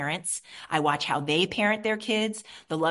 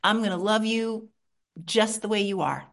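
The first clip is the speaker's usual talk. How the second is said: tender reassurance. Shown as a demonstration. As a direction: reassure a hiding child. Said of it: "I just say".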